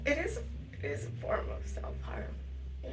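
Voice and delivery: whispering through tears, catching breath midword; choked-up whisper, breaking off; crying. Real, not acted. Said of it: "I'm crying".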